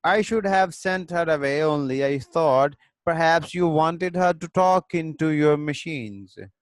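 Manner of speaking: reads the English line slowly, word by word; slow play reading. A narrator's reading. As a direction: spell out each line for the class, unhurried. Teacher reads a play aloud.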